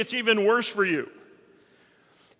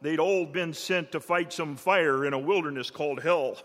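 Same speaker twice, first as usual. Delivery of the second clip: lower, rhythmic poem recitation; cowboy poetry; 3 semitones lower than usual. Acted.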